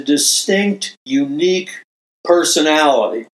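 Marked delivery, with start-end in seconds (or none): 2.2-3.3 "personality" set apart after a short pause; stress on personality. Real, not acted. Preacher singling out what makes you unique, stress on "personality". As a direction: lean on the word "personality". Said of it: "emphasis on the word personality".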